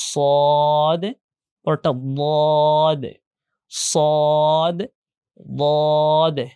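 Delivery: long heavy "স" and "দ", each closed by short "দে"; thick letter contrast. Shown as a demonstration. Teacher compares former and latter letter, heavy pronunciation. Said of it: "আর মোটা করতে পারলে".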